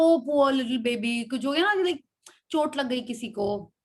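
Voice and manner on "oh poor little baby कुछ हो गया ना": mild imitated tenderness; affectionate pity. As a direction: coo it like over a hurt child. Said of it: "genuinely भी अपन बोलते हैं".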